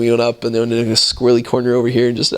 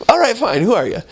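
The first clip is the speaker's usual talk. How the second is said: fed-up question; 10 semitones higher than usual. Retold or imitated. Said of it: "but it's like".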